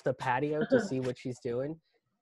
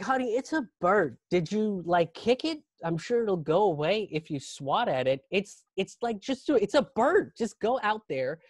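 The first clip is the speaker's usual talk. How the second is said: lightly voiced higher partner; exasperated fiancée; 4 semitones higher than usual. Fiancée urges scared man back outside, mildly exasperated. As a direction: reason with him, pitch climbing in exasperation.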